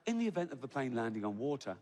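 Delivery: lightly imitated safety-video voice; even, reassuring announcer parody; mock calm announcement. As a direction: recite disaster as soothing routine. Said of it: "that calm, hypnotic voice".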